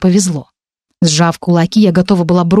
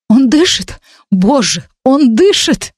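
higher, wailing mother's relief over her son; lamenting mother; 6 semitones higher, slower than usual. Acted. Duchess over her unconscious son, high lamenting cry. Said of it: "причитала герцогиня".

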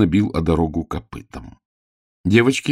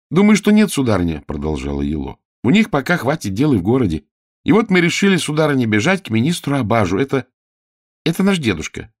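put-on high, keen child's voice; eager child page; 8 semitones higher, 4 dB louder than usual. A narrator's reading. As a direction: hurry to convince the lady.

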